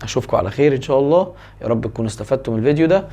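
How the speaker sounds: quick, fast YouTube sign-off; fast closing announcement; rushed outro. Acted. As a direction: rattle through the channel plug.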